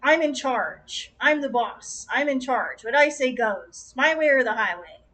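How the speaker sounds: firm, emphatic mock boss; a touch of domineering self-importance; bossy. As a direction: lay down the law like a boss. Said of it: "very much about that energy of".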